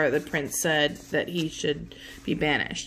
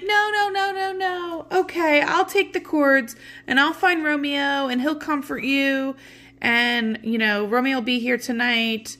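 much higher fussing nurse voice; mock nurse; 8 semitones higher than usual. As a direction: flutter up high like a flustered nurse soothing her.

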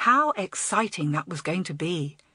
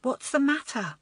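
higher-pitched coaxing question; 7 semitones higher than usual. A narrator's reading. Girl asks small boy what's upset him, coaxing. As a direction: coax him to open up. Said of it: "coaxed Elizabeth".

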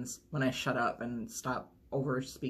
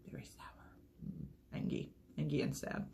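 sour lemon voice; 8 dB quieter than usual. Pretend. Voicing the sour lemon sticker.

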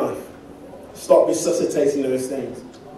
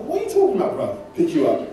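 Essex mate voice; 6 semitones higher, much faster than usual. Retold or imitated.

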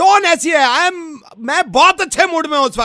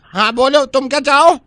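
Angelica; 3 semitones lower than usual. Acted. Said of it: "Angelica's coming".

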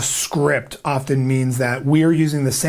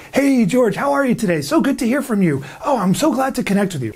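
higher, overeager sales voice; higher-pitched telemarketer greeting; 7 semitones higher than usual. Shown as a demonstration. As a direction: pitch it up like a fake-friendly salesman. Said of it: "It's that higher octave".

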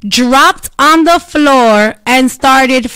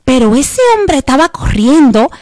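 put-on high, quick excited Spanish old lady; 5 semitones higher than usual. Retelling an old lady's Spanish rant, high and fast. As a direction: rattle it off like an excited abuela. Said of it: "she's in Spanish".

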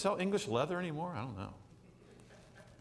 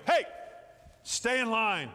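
mildly raised teacher call; teacher calling hey; 3 semitones higher than usual. Retold or imitated. Teacher telling the children to stay in line, firm call. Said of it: "Then you go".

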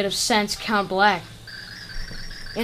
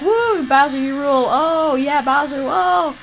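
high, loud cheers; minions cheering; 6 semitones higher, 5 dB louder than usual. Acted. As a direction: whoop for the boss.

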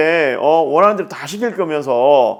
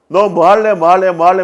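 pushy repeated asking; 3 semitones higher, 6 dB louder than usual. Retold or imitated. Parent pressing child to choose.

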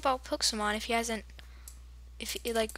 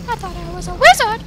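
mock wizard cry; 8 semitones higher, 8 dB louder than usual. Harry Potter joke.

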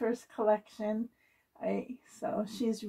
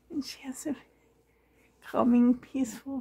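whispering; faster than usual. Real, not acted. Whispering over the sleeping doll.

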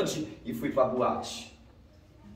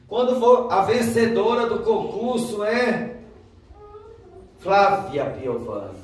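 loud, high announcer build-up, slowing down; contest announcer; 9 semitones higher, 6 dB louder, slower than usual. Retold or imitated. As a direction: drag out the suspense like an MC.

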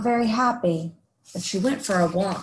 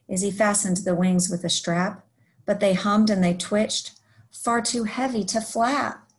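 lively rhyming story read-aloud; picture-book narration. A narrator's reading. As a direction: read a rhyming tale to young children.

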